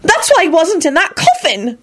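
put-on high, eager girl voice; excited. A narrator's reading. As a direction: rush it out with hope. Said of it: "she burst out excitedly".

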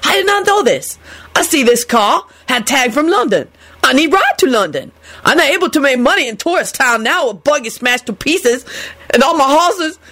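high-pitched plaintive character voice; voice breaking off. A narrator's reading. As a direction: lament your losses, then break off. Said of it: "His voices broke off".

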